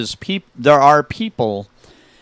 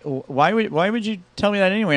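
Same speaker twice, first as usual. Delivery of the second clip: high, quick retold puzzlement; baffled question; 7 semitones higher, faster than usual. Friend questioning a pointless confession, retold as baffled. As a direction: imitate a baffled friend, pitch jumping up.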